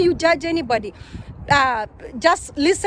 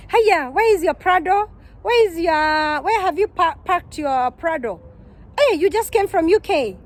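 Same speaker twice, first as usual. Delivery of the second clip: mocking friend; 2 semitones higher than usual. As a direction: needle her about the missing Prado, lightly sneering. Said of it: "kind of mocking you".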